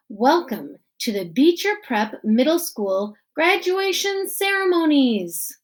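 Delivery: lightly voiced principal at a podium; principal giving speech. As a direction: address the crowd as the principal.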